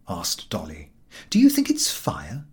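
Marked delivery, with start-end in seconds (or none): 1.3-2.4 higher, whispered fear; frightened whisper. A narrator's reading. Dolly asking her sister if there is a fire, frightened whisper.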